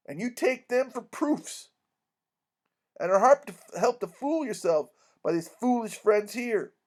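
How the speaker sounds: emphatic warning turning to a plea; earnest, indignant doctor. Acted. Doctor begging Mary Jane to reject the impostor, earnest. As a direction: urge them like a worried family friend.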